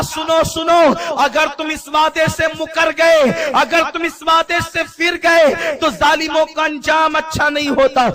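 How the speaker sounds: stern warning in a preacher's voice; सख़्त चेतावनी. Retold or imitated. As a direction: warn them firmly, drawing out each condition. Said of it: "नबियों के साथ ये लहजा होता है". (सख़्त लहजे में चेतावनी)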